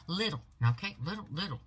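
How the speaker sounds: "Little, little" with the weight on "Little"; stress on little. Shown as a demonstration. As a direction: lean hard on "Little" each time. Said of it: "The emphasis on the little".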